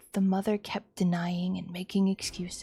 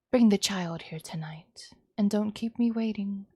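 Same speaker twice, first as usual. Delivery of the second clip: menacing mother; 4 dB louder than usual. Acted. Mother orders kidnapping.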